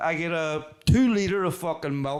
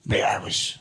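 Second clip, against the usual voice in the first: whisper. Real, not acted.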